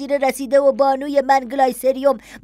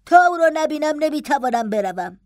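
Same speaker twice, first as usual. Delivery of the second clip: higher-pitched, stubborn pleading; impatient insistence; 4 semitones higher than usual. Acted. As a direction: refuse to budge, voice raised in pitch. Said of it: "با نوعی پافشاری بیتابانه".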